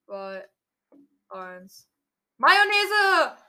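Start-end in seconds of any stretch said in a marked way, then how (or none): 2.4-3.4 punchy game shout after a countdown; excited call. Real, not acted. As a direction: fire off the battle cry. Countdown then battle call. (aufgeregter Schlachtruf)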